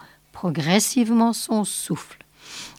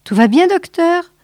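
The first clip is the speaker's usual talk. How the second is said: much higher, louder call; ringing voice; 10 semitones higher, 4 dB louder than usual. Acted. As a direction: boom it through the headset. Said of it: "La voix du général Grove retentit".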